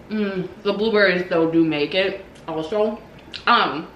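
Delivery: 口いっぱいで話す; talking while chewing; mouth full. Real, not acted. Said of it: "sorry, I'm chewing".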